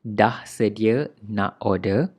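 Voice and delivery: "order" said the Malaysian way, no final r; casual Malaysian "order" in the Malay line; Malaysian accent. Shown as a demonstration. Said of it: "with Malaysian accent".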